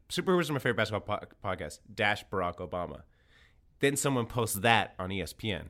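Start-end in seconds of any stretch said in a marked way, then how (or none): 0.1-3.0 rushed mock quote. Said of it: "this is what it looks like".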